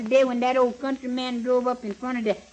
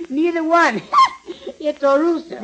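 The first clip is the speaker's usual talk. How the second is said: laughing; 4 semitones higher, 3 dB louder, faster than usual. Retold or imitated. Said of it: "And the old colored man said".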